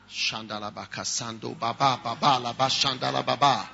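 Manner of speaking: low murmured tongues; speaking in tongues. Real, not acted. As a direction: pray in tongues quietly. Praying in tongues.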